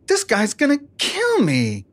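mock terror. Retelling Gabriel's thoughts in a mock frightened voice. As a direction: play it like a lightly scared squeak.

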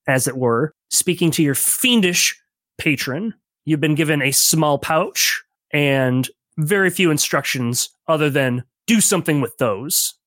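measured, storytelling scene setting; game master narration. Acted. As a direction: set the scene for the players, unhurried.

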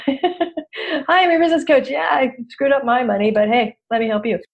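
high, bright mock sales pitch; mock cheery coach. Coach mocking herself to the audience, perky and high.

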